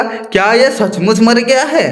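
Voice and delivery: a touch of crafty jackal; cunning. Acted. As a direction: ask it slyly, probing. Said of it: "वो चालाकी से बोला".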